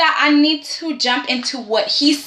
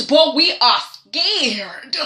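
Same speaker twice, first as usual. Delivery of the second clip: pleading; much slower than usual. Acted. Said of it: "pleading with Eric".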